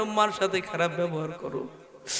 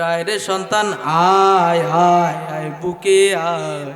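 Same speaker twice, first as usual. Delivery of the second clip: mother's welcome; 8 dB louder, slower than usual. Acted. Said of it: "দরজাটা খুইলা কইবে".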